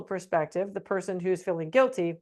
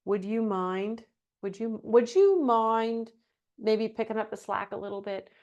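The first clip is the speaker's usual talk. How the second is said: overly polite ask. Shown as a demonstration. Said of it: "Here's another one".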